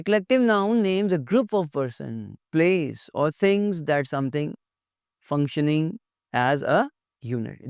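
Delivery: very slow, deliberate dictation; reading a definition. Acted. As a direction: spell the definition out slowly for students. Reads English definition aloud. (परिभाषा बहुत धीरे-धीरे पढ़ना)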